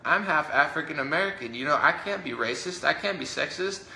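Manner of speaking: high, mock-defensive politician voice, lightly hammed; sarcastic high impression of a politician. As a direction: whine it up high like a smug official. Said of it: "they're like".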